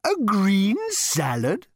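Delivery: disapproving cow. A narrator's reading. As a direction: sneer at the order like a cow. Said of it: "rolling his eyes disapprovingly".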